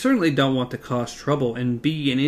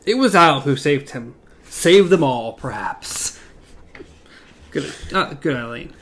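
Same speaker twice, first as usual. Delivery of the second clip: reading a novel aloud, voicing the quotes; measured storyteller read; story narration. A narrator's reading. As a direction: read the chapter to the group.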